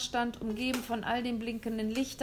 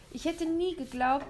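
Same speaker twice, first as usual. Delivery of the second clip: put-on higher, earnest boy; 8 semitones higher than usual. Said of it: "sagte William und meinte es ernst".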